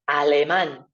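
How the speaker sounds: alemán stressed on the final á, a-le-MAN. Shown as a demonstration. Teacher modelling alemán, final á stressed. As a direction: land on the á in alemán. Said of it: "Accent on the A".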